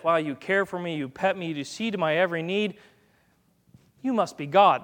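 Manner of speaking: lightly voiced grateful dog; understated awe at the owner, evenly said; adoring dog. Dog thinking about its owner, mildly awed. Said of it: "So dog theology is this".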